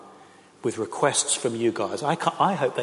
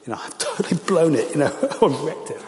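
retold dismay; 4 semitones higher, 4 dB louder than usual. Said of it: "She burst into tears and said".

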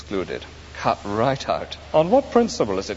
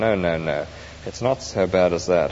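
lightly voiced, lower, kindly spirit; gentle heavenly spirit; 5 semitones lower than usual. The spirit at the gates calms the ghost, gently. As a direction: soothe the ghost.

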